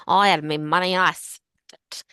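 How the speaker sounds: put-on slurred, tipsy drunk voice. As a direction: slur it like a drunk woman. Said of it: "which you can imagine that in a drunk voice".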